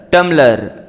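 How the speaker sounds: टम्बलर said tum-ler with no b sound; silent b. Shown as a demonstration. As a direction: drop the b in टम्बलर, say tumler. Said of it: "ये बी silent है". (टम्बलर बिना 'ब' की आवाज़ के, टमलर)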